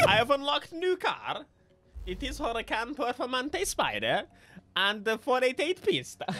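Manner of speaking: hammed-up fake Italian accent; attempted Italian accent. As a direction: play at being Italian, badly. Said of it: "trying to do an Italian accent".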